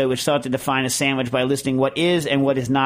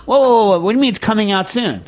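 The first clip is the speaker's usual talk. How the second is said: loud, high burst of disbelief; startled objection; 8 semitones higher, 6 dB louder than usual. Real, not acted. Host stopping co-host over the commercial claim, startled. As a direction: jump in and halt the speaker.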